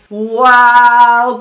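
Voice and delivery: amazed wow. Real, not acted. Amazed at falling dress clip.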